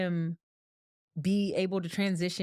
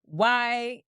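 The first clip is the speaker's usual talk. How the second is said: frustrated parent; 6 semitones higher than usual. Pretend. Voicing parent's hidden resentment.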